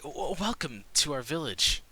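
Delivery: a hint of a spry old woman greeting strangers; old woman welcomes the newcomers politely; old village woman. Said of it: "she comes to the front and she's like".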